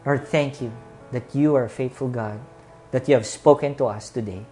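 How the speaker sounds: earnest pastor's closing prayer. Acted. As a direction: pray over the congregation with music.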